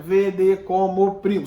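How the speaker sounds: slow, counted-out verse scansion; syllable by syllable. Shown as a demonstration. Teacher showing students the five poetic syllables, syllable by syllable. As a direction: break "Vede como primo" into five measured beats. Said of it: "sempre cinco sílabas poéticas".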